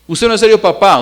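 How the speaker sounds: high, loud mock protest to a dad; imitated kid calling out dad; acted child's reproach. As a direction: complain loudly like a let-down child.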